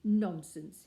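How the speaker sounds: loud dismissive nonsense; loud retort. A narrator's reading. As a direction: brush the lie aside loudly. Gruber rebuffs Curry.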